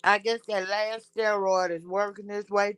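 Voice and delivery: talking through a mouthful of food; eating while talking; chewing while talking. Real, not acted. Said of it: "sorry for chewing in y'all ear".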